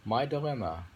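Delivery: slow, weighty poem recital; poem reading. Acted. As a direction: read it as a solemn verse. Reads a poem aloud.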